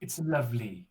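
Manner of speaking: soft, low Welsh accent. Shown as a demonstration. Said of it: "See, mine's, mine's normally".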